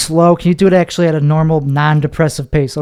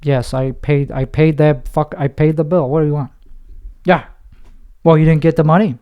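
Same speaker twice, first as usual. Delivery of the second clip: deadpan. Shown as a demonstration. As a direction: say it like you couldn't care less. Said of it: "that very deadpan".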